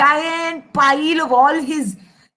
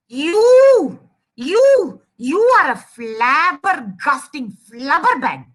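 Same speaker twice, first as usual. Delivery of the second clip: shouted funny insult; slower than usual. Acted. Angry mouse hurling made-up bad words, shouting indignantly. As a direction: build up to a silly insult. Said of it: "funny words to shout at people".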